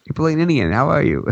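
"Aprilian Indian" as a mock botched name; added syllables. Podcaster jokingly greeting co-host by botched name, mispronounced. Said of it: "How can you add extra?".

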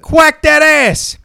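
slow cocky quip. Acted. Duck catchphrase.

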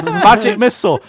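hammed-up casting call; mock spell cry. Player casts at the goblins, mock battle cry.

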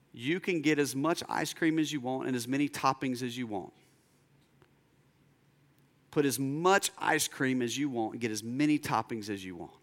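low, soft voice of a dad making an offer; softly, lightly voiced as a kind father; gentle father. Father's gentle offer to his daughter.

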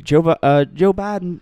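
a weak, barely British try at the name; attempting a British reporter accent and failing; failed British accent. British reporter calling out to Joe Biden, in a failed British accent. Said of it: "I can't do a British accent".

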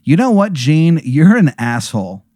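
telling off. Acted. Player's character tells off Gene.

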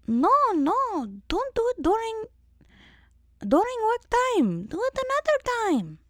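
very high, scolding put-on voice; elderly Romanian dentist. Dentist forbids receptionist's errand during work, high squeaky impression. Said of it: "she talks like this".

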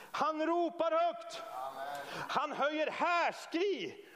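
high, slow proclamation, each word drawn out. Shown as a demonstration. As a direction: call it out slowly with force. Preacher acts out the calling aloud.

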